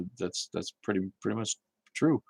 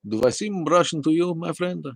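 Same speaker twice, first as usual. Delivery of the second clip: hammed-up Russian accent, pitched higher; a mock Russian asking the chat, higher pitched; 6 semitones higher, 4 dB louder than usual. Answering chat as a mock Russian, hammed-up Russian accent. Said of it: "I do a Russian accent when I need to".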